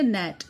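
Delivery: gnat said as "nat" with no g sound; silent g. Shown as a demonstration. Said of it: "इसमें हम जी की sound नहीं बोलेंगे".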